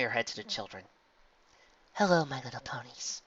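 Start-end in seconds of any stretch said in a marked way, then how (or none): 1.9-3.2 gentle greeting. A narrator's reading. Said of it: "she smiled gently".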